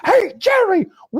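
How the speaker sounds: high whooping yell; Kramer shout. Retold or imitated. Kramer yelling from a taxi, high whooping shout. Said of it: "he goes".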